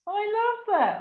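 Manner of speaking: the words catch as tears rise; moved, near tears. Real, not acted. Host to guest, voice breaking high with emotion. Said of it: "I almost burst into tears then".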